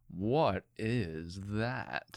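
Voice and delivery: slow, drawn-out alien voice; mock alien staring at a girl; alien impression. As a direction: stretch it out like a disguised alien. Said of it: "Jordan Peele is pretending".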